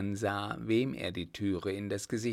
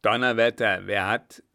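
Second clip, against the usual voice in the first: angry shout; 9 dB louder than usual. A narrator's reading. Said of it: "rief eine zornige Stimme".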